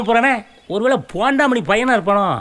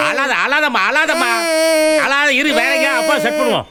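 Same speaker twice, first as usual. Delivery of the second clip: put-on higher-pitched, hurried comforting of a child; calm a crying child down, pitch raised; soothing a crying child; 6 semitones higher than usual. (அழும் குழந்தையை சமாதானப்படுத்தும் குரல்)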